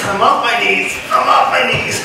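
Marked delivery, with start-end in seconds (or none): 1.1-2.0 higher, indignant shout. Real, not acted. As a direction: yell it back in protest. Protesting to coach, repeated louder.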